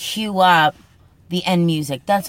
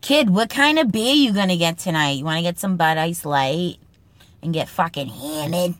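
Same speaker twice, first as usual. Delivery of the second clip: put-on Boston accent. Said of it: "Boston Speak segment, Kid lines".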